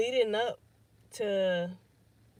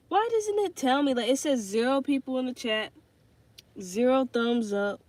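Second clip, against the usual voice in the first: exasperated disbelief; 3 semitones higher, 6 dB louder than usual. Real, not acted. Livestream chat not showing messages.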